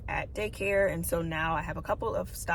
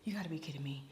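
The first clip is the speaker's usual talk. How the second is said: whispered mock disbelief; exasperated aside; 11 dB quieter, much faster than usual. Retelling forgetting the microphone upstairs, whispered exasperation. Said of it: "I'm like".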